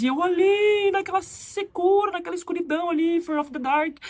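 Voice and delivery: high, playfully hammed-up lament; mock melodrama. Dramatizes her gloomy lonely corner. (drama exagerado de brincadeira)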